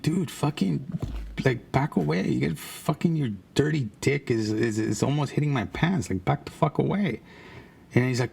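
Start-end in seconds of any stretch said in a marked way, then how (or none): 0.0-7.2 higher-pitched, exasperated retold objection; retold protest. Kid telling a naked man to back off, exasperated. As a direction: act out warding someone off, pitched up but not shouted.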